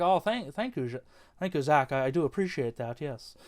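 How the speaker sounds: a hammed-up, clumsy British accent, lightly done; bad British accent as Chris Nolan. Imagined director thanking Zack for the actor tip, in a bad British accent. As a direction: put on a bad posh British accent for fun. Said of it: "That was a bad British accent".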